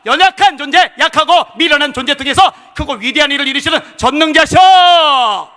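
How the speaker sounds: high, shouted sermon with long-held endings; full-force preaching. Acted. Preacher rousing the congregation against negative words, full-force shouting. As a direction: thunder each phrase out to the congregation.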